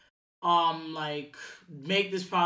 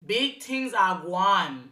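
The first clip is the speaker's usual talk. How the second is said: slow, hammy fake Jamaican accent; much slower than usual. Shown as a demonstration. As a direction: ham up a bad Jamaican accent. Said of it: "my fake sucky ass Jamaican accent".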